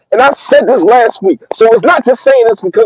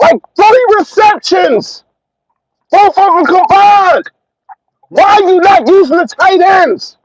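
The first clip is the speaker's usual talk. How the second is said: pissed-off rant; 10 semitones higher than usual. Real, not acted. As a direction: demand answers from the coach, fed up. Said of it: "I am pissed right now".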